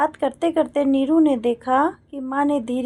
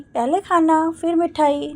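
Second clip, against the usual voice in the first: light, higher childish mimic of mother; mimicking mother; 4 semitones higher, 4 dB quieter than usual. Daughter teasingly mimics her mother, higher childish mock. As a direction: playfully parrot the old woman's whine. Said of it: "Neeru ने माँ की नकल उतार कर कहा".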